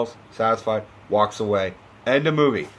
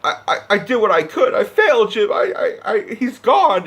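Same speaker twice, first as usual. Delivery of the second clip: distraught sobbing; 5 semitones higher than usual. Retold or imitated. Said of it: "he's just distraught".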